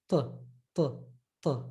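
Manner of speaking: "Ta" with the tongue curved back, emphatic. Shown as a demonstration. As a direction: repeat "Ta" heavy, tongue curled. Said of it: "with your tongue curved".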